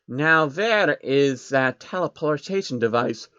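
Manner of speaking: slow, different voice, measured; a scheming baron speaking deliberately. Acted. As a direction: Baron calmly turning to business. The Baron character voice.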